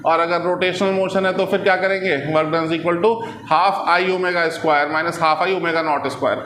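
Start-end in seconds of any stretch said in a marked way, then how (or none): 2.3-6.4 slow dictation. Real, not acted. Dictating formula to class.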